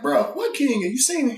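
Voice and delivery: high, pressing ask; urgent question. Retold or imitated. Asking the DC where King is, high and urgent. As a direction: push it, pitched well up.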